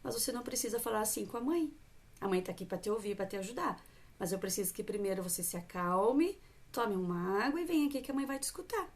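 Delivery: voz mais baixa e tranquila, acolhendo; mãe calma com a filha. Shown as a demonstration. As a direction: acalme a filha chateada com ternura. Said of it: "Manter a calma também". (mãe acalmando a filha chateada, com voz serena)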